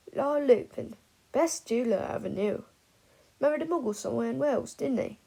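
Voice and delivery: put-on tipsy old wizard, rambling; drunk old man.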